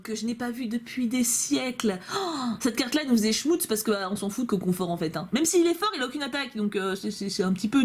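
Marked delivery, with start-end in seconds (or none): none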